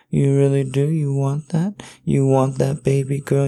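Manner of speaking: high-pitched, excited questioning; eager questioning. Acted. Lover presses partner for an answer, eager and high.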